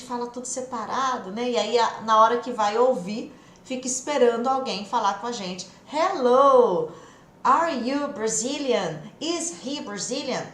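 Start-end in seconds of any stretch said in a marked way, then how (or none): 5.9-10.4 stiff, over-careful textbook English; mock textbook speech. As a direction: overpronounce every word like a textbook. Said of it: "Isso não vai existir". (inglês de livro, forçado e separado)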